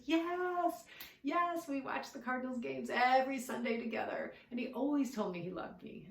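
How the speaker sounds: retelling grandpa's excited high yes, then settling down; a grandfather suddenly lit up with recognition, imitated; eager yes. Grandfather confirms grandson's message eagerly.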